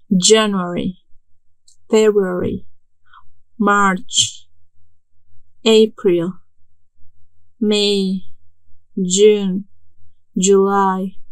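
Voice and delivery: each month said alone with a pause after it, like a list for the class to repeat; teacher modelling months for students; pronunciation demo. Shown as a demonstration. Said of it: "la pronunciación".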